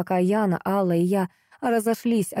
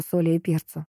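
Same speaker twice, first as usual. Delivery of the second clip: ordinary delivery, nothing marked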